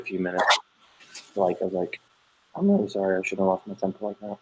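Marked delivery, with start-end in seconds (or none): 2.6-4.4 softened, contrite retelling; gentle apology. Retold or imitated. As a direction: say sorry quietly to a child. Parent repeats apology to child.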